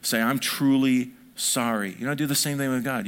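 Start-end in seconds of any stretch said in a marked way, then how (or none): 0.2-2.0 sincere apology. Shown as a demonstration. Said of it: "Be sincere".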